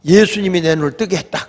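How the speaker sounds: retold firm testimony; resolute. Healed blind man testifying about Jesus, resolute. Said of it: "단호하게".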